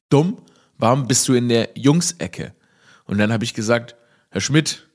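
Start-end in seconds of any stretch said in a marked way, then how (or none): 0.1-2.5 mock scolding teacher. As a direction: snap out the dumm as the baffled teacher. (Lehrer fragt lauter und höher, ob der Schüler dumm ist)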